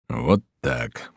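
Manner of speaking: low, softly murmured aside; understated narrated whisper; hushed whisper. A narrator's reading. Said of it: "прошептал Тилли".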